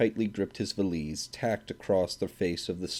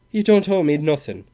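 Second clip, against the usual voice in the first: imperturbable; 7 semitones higher, 8 dB louder than usual. A narrator's reading. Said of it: "in the same imperturbable way".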